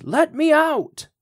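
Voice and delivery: very high, slow, desperate shriek; second scream, pitched far above the first. A narrator's reading. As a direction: scream it at the top of the voice, begging. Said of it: "he could hear Old Nick start to scream".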